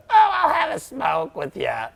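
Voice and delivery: a lightly voiced chummy smoker; casual smoker. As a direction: play a breezy social smoker, drawn out. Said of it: "it's not like I'm like a".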